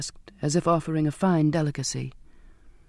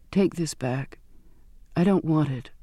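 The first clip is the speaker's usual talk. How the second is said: weak and breathless. Acted. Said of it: "weak and breathless".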